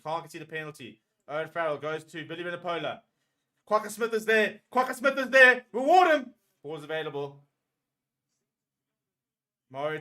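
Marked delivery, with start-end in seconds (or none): 3.6-4.6 higher and louder call; excited shout. Real, not acted. Tense defence, shouting. 4.7-6.3 much higher and louder, screaming for the turnover; full scream. Real, not acted.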